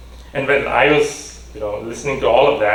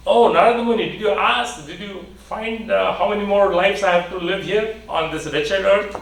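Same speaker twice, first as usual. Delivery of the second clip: desperate pleading; 6 semitones higher than usual. Acted. Ant-hill man pleads with sage.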